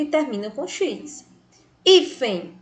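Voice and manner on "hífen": "Hífen" with a firm opening "Hí"; stress on penultimate syllable. Shown as a demonstration. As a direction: hit the first syllable of "Hífen". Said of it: "penúltima sílaba tônica". ("Hífen" com a sílaba inicial "Hí" mais forte)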